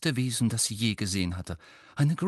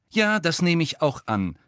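cold; 8 semitones higher, 5 dB louder than usual. A narrator's reading. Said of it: "sagte Hermine kalt".

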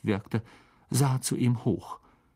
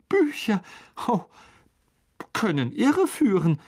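careful, high-pitched hedging; tentative, halting evasion pitched high; cautious; 8 semitones higher than usual. A narrator's reading. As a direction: tread carefully, word by word. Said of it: "sagte Lockhart behutsam".

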